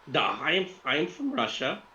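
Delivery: lightly put-on Russian accent; a hint of a Russian woman; Victoria Lapshina. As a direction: answer in a halting Russian accent. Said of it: "a female Russian accent".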